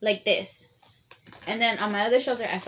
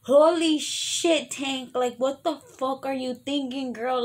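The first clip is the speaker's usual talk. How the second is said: high, slow mock disbelief; mock shocked viewers; 5 semitones higher, slower than usual. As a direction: play the stunned audience, drawn out. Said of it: "you guys are probably thinking".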